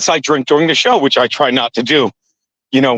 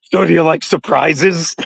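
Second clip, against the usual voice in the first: slow, lightly husky come-on; a hint of a husky tease. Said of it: "I'll just say to him in a husky voice".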